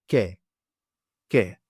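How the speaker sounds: "ke" short, k plus open e; isolated "ke" with a clear k, pause between; kappa sound. Shown as a demonstration. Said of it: "with a kappa sound".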